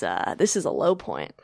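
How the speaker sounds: low voice fading to a whisper; defeated murmur. Retold or imitated. Retelling her low point on Zoom, fading to a whisper. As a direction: trail off in despair.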